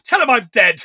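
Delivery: mock frustrated snap. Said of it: "he just gets so frustrated".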